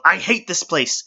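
high, loud fed-up yell. Acted. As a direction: shout it as you leap away.

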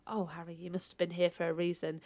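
soft, unvoiced, lovestruck line; breathy whispered swoon. Host retelling Geraldine's line to Harry, whispered and smitten.

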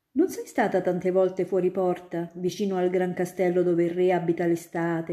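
put-on a grown-up spinning tales for a child; student eagerly convincing little Ida; storytelling student.

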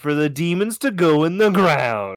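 high, loud mock demand; hammed-up loud insistence; insistent shouting. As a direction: shout down the objection. Overriding objection in acted bit.

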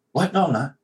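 high-pitched defensive denial. Retold or imitated. Retelling a homophobe accusation, defensive. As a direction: protest it, pitched well up. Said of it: "I get defensive".

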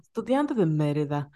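lightly mocked Yucatecan accent on estudiante de Mérida; a hint of an overdone Yucatecan accent; forced Yucatecan accent. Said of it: "así fuerzan su acento".

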